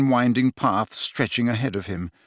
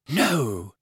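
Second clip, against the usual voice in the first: reproving. A narrator's reading. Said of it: "she said reprovingly".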